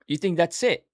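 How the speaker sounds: high, mocking sing-song tease; mocking taunt. Teasing viewers who think Russian is simple, a high mock taunt.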